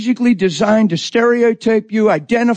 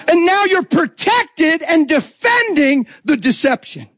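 forceful preaching; 5 semitones higher, slower than usual. Real, not acted.

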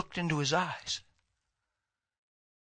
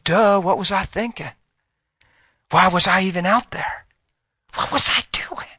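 higher-pitched acted self-reproach; dawning realization; 4 semitones higher than usual. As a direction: question yourself as if just waking up to it. Acts out the wayward person's realization.

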